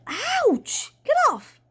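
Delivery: high, loud yelp of pain; startled, high-pitched shout; pained yell. A narrator's reading. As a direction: yelp out, then shout to get free. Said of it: "and he yelled".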